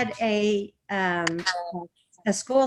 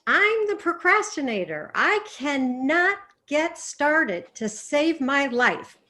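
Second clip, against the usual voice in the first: higher, playful procrastinator voice; procrastinator act; 4 semitones higher than usual. Shown as a demonstration. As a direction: act the stuck student. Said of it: "Make a scene about the procrastinator".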